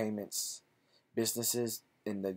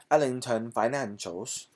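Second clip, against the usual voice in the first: "Ellington Financials" in a put-on British accent, louder, rising at the end; mock British accent; 2 semitones higher, 5 dB louder than usual. Vlogger rehearsing the company name in a British accent. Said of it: "British accent".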